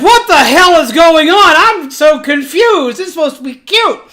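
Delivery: bewildered outburst. Retold or imitated. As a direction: blurt it out as the baffled newcomer. New girl bewildered by gruesome scene.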